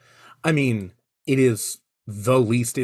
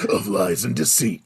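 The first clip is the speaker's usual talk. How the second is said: movie trailer voice; 4 semitones lower than usual. Acted. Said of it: "like a movie trailer".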